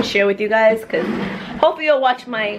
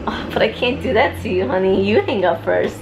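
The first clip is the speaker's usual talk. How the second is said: giggly late night call. Pretend. Mock lovers' hang-up game.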